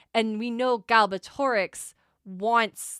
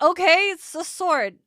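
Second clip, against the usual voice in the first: mock unimpressed; 9 semitones higher, 8 dB louder, slower than usual. Mock underwhelmed reaction.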